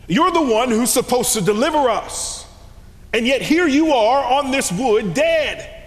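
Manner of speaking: rising reproach that ends in a shout; disciples' bitter cry at the cross, loud; anguished accusation. Acted. Crying out to the crucified Christ.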